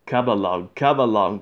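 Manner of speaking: mildly puffed urging; puffing. Acted. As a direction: chuff it out as an engine working hard. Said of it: "puffed James".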